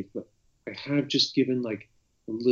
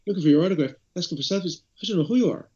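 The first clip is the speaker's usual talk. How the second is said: quoting the woman; 6 semitones higher, 4 dB louder, faster than usual. Retold or imitated. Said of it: "And she was like".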